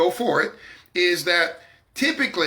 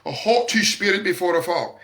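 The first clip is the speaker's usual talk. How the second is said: mock scripture quote. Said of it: "quote the scripture like".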